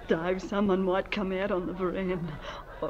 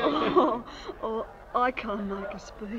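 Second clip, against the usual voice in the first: tearful; 2 semitones higher than usual. Acted. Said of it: "I don't know why I'm crying".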